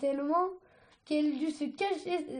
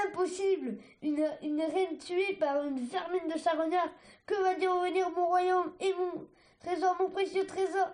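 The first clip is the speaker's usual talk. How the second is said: hammed-up dying queen; 4 semitones higher than usual. Dying queen's dramatic lament.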